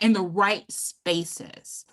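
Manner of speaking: in the right spaces, slowed and each word set apart; deliberate, unhurried repeat of in the right spaces; emphasized phrase. Shown as a demonstration. Speaker repeating advice to the club, slow and deliberate. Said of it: "And I emphasize that".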